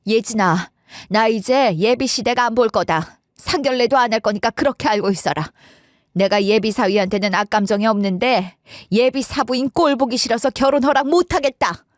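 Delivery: acted indignation, measured at first then rising; mildly heated, resentful refusal; heated declaration. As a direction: lay down an angry ultimatum, building at the end. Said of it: "감정에 열이 오른 새엄마가".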